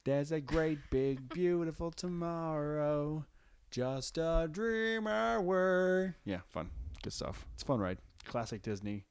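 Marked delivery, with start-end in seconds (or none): 0.0-6.1 robot voice. Pretend. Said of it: "Why do you sound like a robot?".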